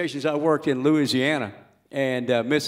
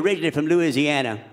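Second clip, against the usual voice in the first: Louisiana voice. Acted. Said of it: "I'm doing the voice of anybody from Louisiana".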